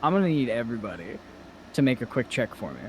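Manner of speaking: high, bright mock-innocent; sing-song sly cheer. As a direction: sweetly announce the trap. GM's mock cheery trap announcement.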